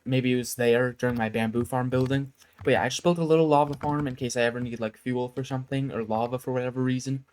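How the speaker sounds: talking while chewing gum; words round a wad of gum. Real, not acted. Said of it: "Sorry, I'm chewing gum".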